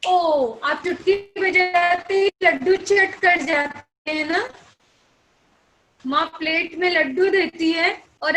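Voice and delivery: put-on loud, lively teacher hype for the children; loud excited classroom storytelling. Shown as a demonstration. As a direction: pump up the kids with the laddoo story. Excited laddoo story to kids.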